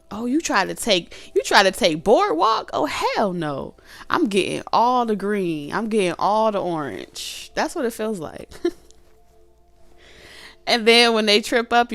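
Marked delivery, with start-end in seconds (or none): 0.1-7.5 competitive gloating. Acted. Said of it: "board game".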